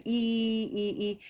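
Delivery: "E" dengan senyum lebar; smiling E. Shown as a demonstration. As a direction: tarik bibir tersenyum saat bilang "E". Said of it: "up with our big smile again".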